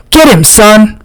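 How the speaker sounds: high yell, urging the dog on. A narrator's reading. Jerome urging his fighting dog from ringside, high yell. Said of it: "Jerome yells".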